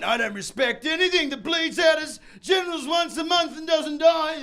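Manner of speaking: mock a cocky young man; young man's mocking impression. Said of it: "the adage of young men going".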